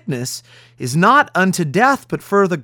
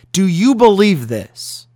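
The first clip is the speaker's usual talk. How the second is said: slow, louder "Do you believe this?"; loud challenge; 3 semitones higher, 5 dB louder, slower than usual. Acted. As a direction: hammer home "Do you believe this?" loudly and slowly. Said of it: "repeated question, now louder".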